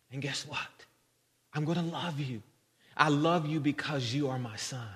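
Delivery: understated, tender retelling; tender reassurance. Retold or imitated. Father reassures his son.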